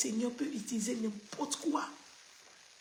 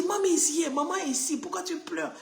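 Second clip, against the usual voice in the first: comforting the dog; 6 semitones higher than usual. Retold or imitated. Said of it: "il dit".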